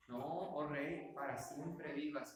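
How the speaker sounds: slow, measured, respectful address; mildly reverent, drawn-out salute; with all respect. Acted. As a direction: greet the king deferentially, without hurry. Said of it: "con todo respeto".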